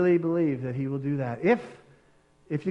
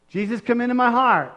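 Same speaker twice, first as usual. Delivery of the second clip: "Jesus, come into my heart" higher and louder, pleading; pleading prayer; 6 semitones higher, 5 dB louder than usual. Shown as a demonstration. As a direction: cry it out to God. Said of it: "just ask him and say".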